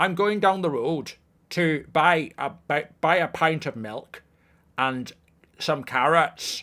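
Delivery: put-on Northern Irish accent, tentative. Trying out accents one by one, doing a Northern Irish accent. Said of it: "not too bad for Northern Ireland".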